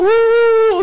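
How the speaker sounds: high loud imitated crowd whoop; crowd cheer. Imitating the seminar crowd cheering, loud high whoop. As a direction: whoop like a hyped audience. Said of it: "Nagsisigawan yung mga tao".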